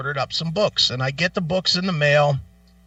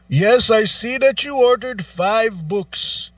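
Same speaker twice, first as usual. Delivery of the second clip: mock phone agent; 6 semitones higher, 4 dB louder, slower than usual. Agent voiced.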